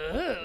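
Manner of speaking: imitated "ugh" of disgust; disgusted groan. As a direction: mimic someone's disgusted reaction. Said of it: "don't be like".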